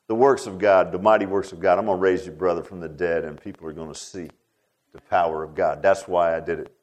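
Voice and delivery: low, gentle, softened voice; retold loving reassurance. Jesus promising Martha her brother back, gently loving. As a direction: reassure her quietly, voice dropped deep. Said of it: "he kinda lovingly showed her".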